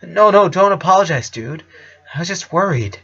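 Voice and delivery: put-on relieved boyfriend brushing it off; a touch of a bouncy teen voice; eager teen boyfriend. Bobby reassures then asks.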